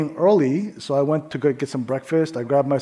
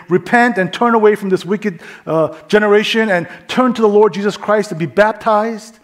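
mild preaching; 5 semitones higher, 4 dB louder than usual. Retold or imitated. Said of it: "Peter preaches this powerful gospel".

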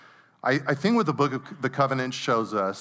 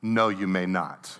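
imitating a coolly official refusal, pitched lower; deadpan mock verdict from a child following the rules; cold, calculating; 5 semitones lower than usual. Older sister refuses little sister the crayon, cold and calculating. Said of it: "Very cold, very calculating".

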